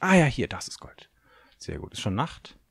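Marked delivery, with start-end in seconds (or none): 0.0-1.1 excited whisper. Real, not acted. Finding gold in the cave.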